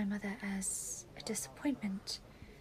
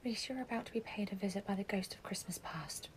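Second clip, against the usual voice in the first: ominous whisper; 4 semitones lower, 6 dB quieter than usual. Acted.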